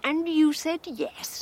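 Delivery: slow, disbelieving question; surprised. Acted. Wife questions husband about the fete, surprised. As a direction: draw it out, taken aback. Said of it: "don't sound so surprised".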